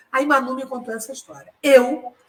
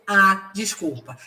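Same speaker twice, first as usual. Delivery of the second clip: drawn-out, mocking "Ah" before "desculpa", slow; a sarcastic, dragged apology; slower than usual. Shown as a demonstration. Employee mocks the boss with a slow sarcastic apology. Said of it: "Esse "A" é de deboche".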